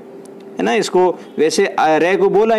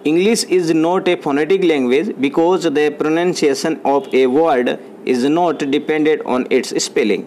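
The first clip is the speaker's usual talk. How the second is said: very slow, word by word English; dictation pace; much slower than usual. Shown as a demonstration. Teacher dictating a definition to students, very slow. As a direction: read it out slowly so they can write. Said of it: "dictating a definition".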